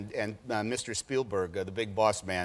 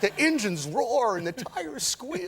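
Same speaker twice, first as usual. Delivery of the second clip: urging enthusiast; 7 semitones higher than usual. Acted. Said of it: "he is always saying to anybody he works with".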